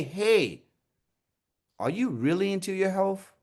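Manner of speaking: genuinely interested, caring question; caring emphasis. Shown as a demonstration. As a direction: lean on "really" with sincere interest. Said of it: "saying the caring words".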